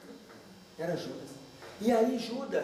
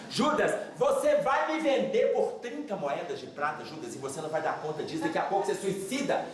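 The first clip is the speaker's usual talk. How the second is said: acted urgent pleading, starting low and building; mildly frantic, insistent warning; desperate warning; 5 semitones lower than usual. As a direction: plead urgently to stop Judas. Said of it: "Nesse desespero que eu tô aqui pra alertar Judas".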